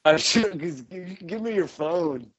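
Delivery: lightly voiced stoned jam-band fan; dreamy burnout dude, drifting; stoned hippie.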